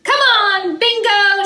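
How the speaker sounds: high, loud call to the dog. Acted. Lulu calling her dog to follow, high bright call. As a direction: call Bingo over across the yard. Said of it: "she says".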